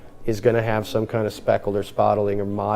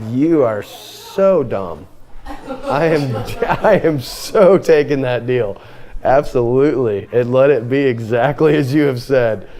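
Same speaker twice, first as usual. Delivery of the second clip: emphatic. Retold or imitated. Teacher voicing Laban leaping at Jacob's deal, emphatic. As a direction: imitate an eager dealmaker, leaning on each phrase. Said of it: "It's very emphatic. He's like".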